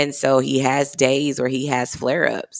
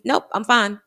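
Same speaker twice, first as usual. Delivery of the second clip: son's brave denial; 8 semitones higher than usual. Retold or imitated. Son voiced denying pain.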